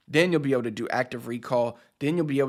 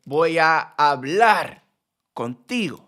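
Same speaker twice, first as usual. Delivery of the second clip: "hablar" punched loud and drawn out; emphatic out-loud study read, "hablar" stretched and stressed; 2 semitones higher, 5 dB louder, slower than usual. Shown as a demonstration. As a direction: read it out slowly, leaning hard on "hablar". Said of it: "I'm gonna emphasize the word".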